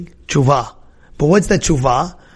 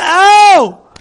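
pained ow; 10 semitones higher, 7 dB louder than usual. Acted. Character reacts to guilt.

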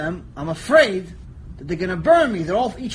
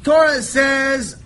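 slow, loud announcement; booming slow lead-in; preaching shout; 4 semitones higher, 5 dB louder, much slower than usual. Acted. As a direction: build it up before the verse.

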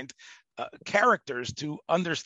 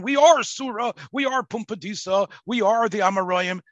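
higher, louder proud proclamation; proud declaration; 4 semitones higher, 5 dB louder than usual. Retold or imitated. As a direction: proclaim it like ancient sages. Gaonim voiced declaring their identity.

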